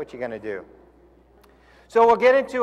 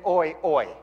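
horse command. Retold or imitated. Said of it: "you say".

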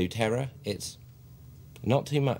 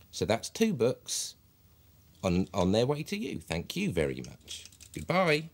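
courteous phone voice. Shown as a demonstration. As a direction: reassure the customer on the phone. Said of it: "use a bit of a voice".

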